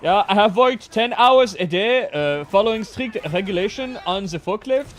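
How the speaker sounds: hammed-up German worker voice, German accent. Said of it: "Is my German accent sound like I'm having a stroke?".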